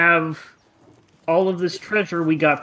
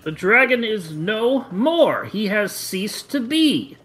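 higher, swooping pitch on the key words; mock-solemn proclamation; 5 semitones higher than usual. Hero announcing the dragon's death to Harbin, mock-solemn proclamation. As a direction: declare it like a hammy eulogy. Player grandly answers town leader in character.

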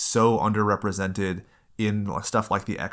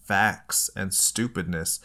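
slow, reluctant pedantic sigh; mock know-it-all groan; slower than usual. Podcaster about to correct the co-hosts, mock reluctant groan. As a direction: drag it out as a grudging correction. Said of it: "I have to be all like".

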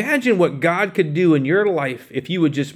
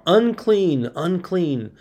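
a mild mock call of "Unclean, unclean", the first "Unclean" pitched higher; crying out; 5 semitones higher, much slower than usual. Pastor voices lepers warning people approaching them, in a mild mock call. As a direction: call out "Unclean" like a leper warning passers-by, then let the second drop. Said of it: "they were required to cry out".

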